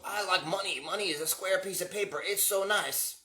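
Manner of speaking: mocking Johns. Imitating the Johns heard singing about money, lightly mocking. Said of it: "I'm hearing Johns go".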